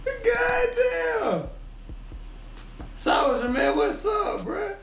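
high squealed shout through laughter; laughing so hard it turns to a cry. Real, not acted. Streamer losing it over Soldier's clip, high laughing shout. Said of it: "That man got me crying".

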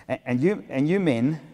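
put-on toned-down consultant voice, no accent; milder imitated consultant. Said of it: "I, I won't do a German accent".

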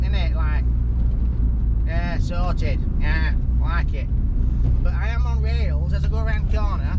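put-on Manchester lad accent; Mancunian accent. Car reviewer playing the part at the wheel, Mancunian accent. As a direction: have a rough go at a Mancunian accent. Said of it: "I need to adopt a Mancunian accent".

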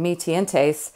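mi tientes read the Spanish way, not the French; Spanish-style reading. Shown as a demonstration. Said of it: "I was saying it like Spanish".

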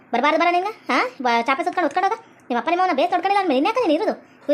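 acted grandmother's rebuke; berating, at ordinary volume; scolding. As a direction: scold the grandson in uneven bursts. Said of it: "ಏನ್ ಹಂಗ ಬೈತಿ?".

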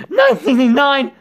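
hammed-up protest, slowed right down; mock outrage. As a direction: drag it out in comic horror. Mock outrage at game text.

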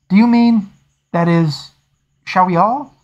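mildly nervous officer asking; anxious. Acted. Young lieutenant asking his captain if all must try, mildly anxious. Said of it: "said Lieutenant Fanshawe anxiously".

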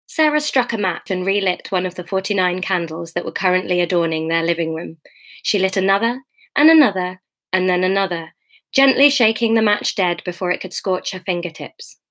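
measured audiobook reading; story narration. A narrator's reading. Reader to her online listeners, measured story narration. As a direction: read the novel aloud evenly. Reads the novel aloud.

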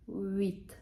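HUIT starting on a "ü-i" glide, no H; silent H in HUIT. Shown as a demonstration. Teacher showing the silent H, clearly pronounced HUIT. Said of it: "H в французькій мові зазвичай на початку слова не читається".

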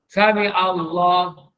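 Sami Allah slowly, ain not alif; slow Sami Allah with true ain. Shown as a demonstration. Ustaz correcting the congregation, slow recitation. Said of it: "bukan alif".

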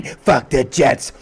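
very slow, loud drawn out. Acted. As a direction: stretch every word out. Drawn-out chant line.

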